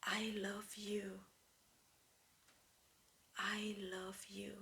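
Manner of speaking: soft whisper, slow on the first; tender whisper to yourself in the mirror; whispered self-love. Shown as a demonstration. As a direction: whisper it to your reflection. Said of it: "and just say".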